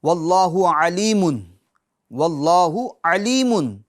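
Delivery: slow, drawn-out recitation of علیم with a clear ع; stretched Quranic chant of واللہ علیم. Shown as a demonstration. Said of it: "قرآن پاک میں آتا ہے".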